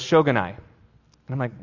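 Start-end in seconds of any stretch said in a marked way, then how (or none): 0.0-0.5 "Shogunai" said the Japanese way, sho-gu-nai; Japanese phrase. Retold or imitated. Japanese friend shrugging it off, lightly saying "Shogunai". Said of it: "my Japanese friend turns to me and he goes".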